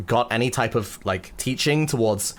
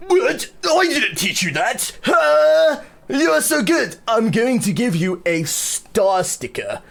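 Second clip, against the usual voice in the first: high, squealing astonished teacher voice; teacher gasping with over-the-top praise; amazed teacher; 9 semitones higher, slower than usual. Pretend. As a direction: gush like a stunned music teacher. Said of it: "and they're gonna go".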